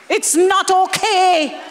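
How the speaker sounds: slow, firm declaration; emphatic shout. Real, not acted. Preacher insists to mothers, slowly and firmly. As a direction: plant each word like a verdict.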